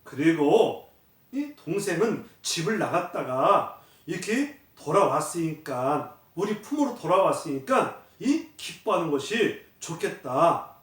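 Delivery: a hint of a tender father comforting; gentle father. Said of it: "아버지가 뭐라 그랬냐면".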